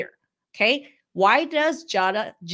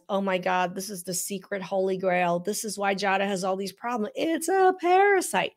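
mock excited. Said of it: "they're touting it as".

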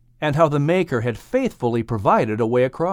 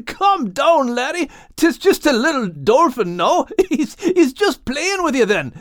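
high voice soothing through laughs; calm him while trying not to laugh; laughing reassurance; 12 semitones higher than usual. Acted. Max calms scared Al, laughing despite himself. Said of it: "not able to withhold a laugh".

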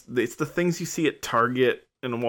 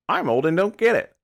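higher, louder put-on line of not getting it; Sophia; 9 semitones higher, 5 dB louder than usual. Host voices Sophia taking the easy way out, mock clueless. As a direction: play up being old and clueless. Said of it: "easy for Sophia to be like".

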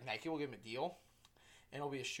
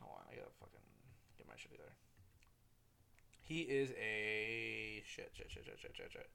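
whispered cursing; 4 semitones lower, 6 dB quieter than usual. Real, not acted. Fumbling, swearing to himself under breath.

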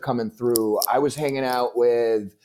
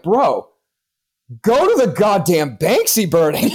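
laughing; 7 semitones higher, 3 dB louder than usual. Retold or imitated. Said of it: "all of us in the room are like".

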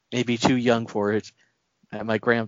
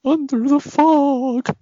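ominous movie voice; 5 dB louder, slower than usual. Acted. Quoting movie line ominously.

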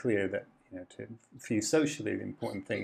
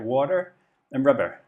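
Devon home accent; 5 dB louder than usual. Shown as a demonstration. Guest shows the host his childhood Devon accent, Devon accent. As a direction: say "water" and "rubber" the way a Devon village kid would. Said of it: "If, if I were to say that in my home accent".

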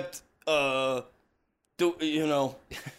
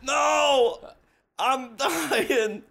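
hammy shout; 6 semitones higher, much slower than usual. Pretend. Fake dying call-in.

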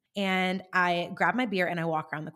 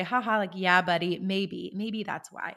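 laughing it off; 3 dB louder than usual. Retold or imitated. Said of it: "laugh it off and say".

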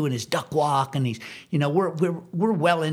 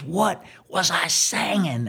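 stern demand; 3 semitones higher, slower than usual. Retold or imitated.

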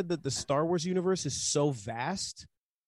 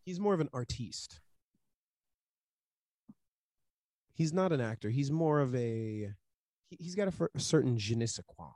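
mock pretentious; 2 semitones lower than usual.

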